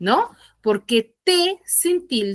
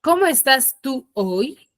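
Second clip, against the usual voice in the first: slow example read; 2 semitones higher, slower than usual. Shown as a demonstration. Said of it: "¿A qué me estoy refiriendo ahí?".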